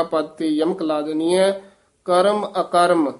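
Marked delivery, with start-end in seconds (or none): 2.0-3.1 ਕਰਮ then ਅਕਰਮ, the two words not merged; ਕਰਮ ਅਕਰਮ kept apart. Shown as a demonstration. Teacher correcting how the words are joined, said clearly. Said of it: "ਅਕਰਮ ਨਹੀਂ ਕਹਿਣਾ ਹੈ".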